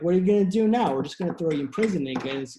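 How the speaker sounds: loud, fast mock threat; hammed-up shout, rushing; mock angry official. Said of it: "He's like".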